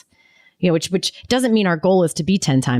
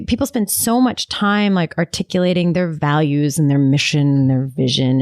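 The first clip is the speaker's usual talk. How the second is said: lightly sarcastic listing of buzzwords; drip of sarcasm. Real, not acted. Host on companies articulating values, drily sarcastic. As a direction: let a little sarcasm seep into the list. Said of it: "you can hear a drip of sarcasm in my voice".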